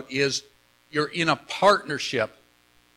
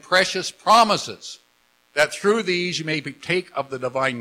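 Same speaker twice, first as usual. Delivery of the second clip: louder, measured scripture reading; reading aloud; 4 dB louder than usual. Real, not acted. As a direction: lead the congregation in reading aloud. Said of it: "Out loud, everybody".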